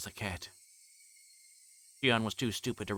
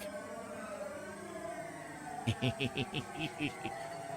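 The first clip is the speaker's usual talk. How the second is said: a long high cackle of madness; high mad cackle; 8 semitones higher, 7 dB quieter than usual. Acted. The killer laughing down at Keiichi clutching his stomach, high cackle. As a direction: cackle as he writhes on the ground.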